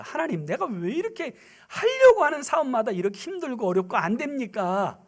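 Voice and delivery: an indignant, protesting question to God, starting high; a touch of retold accusing; demanding complaint. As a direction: mildly argue with God. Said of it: "막 따지듯이 묻는데".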